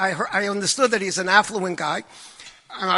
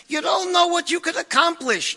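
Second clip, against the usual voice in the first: excited exclaim; 9 semitones higher than usual. Real, not acted. Preaching the message.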